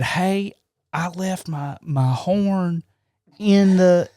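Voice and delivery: lightly voiced lady caller; Thelma Hollister. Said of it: "character called Thelma Hollister".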